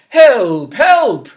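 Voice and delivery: loud cry for help. Acted. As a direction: call out in panic. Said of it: "And he said".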